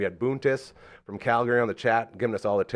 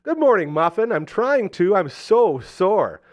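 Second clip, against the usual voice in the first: playful sweet text; 7 semitones higher, 6 dB louder than usual. Retold or imitated. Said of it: "I responded with".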